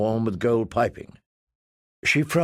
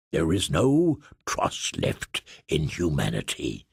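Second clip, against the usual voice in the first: much lower, slow, softer lament; sorrowful giant to kitten; 8 semitones lower, 3 dB quieter, slower than usual. Acted. Tuff telling the kitten, sorrowful. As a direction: mourn to the kitten.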